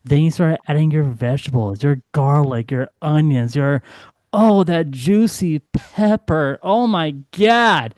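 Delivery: low sultry chili-cooking pitch; sexy voice. Retold or imitated. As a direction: seduce them with the recipe. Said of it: "your best sexy voice, your best, you know, naughty voice".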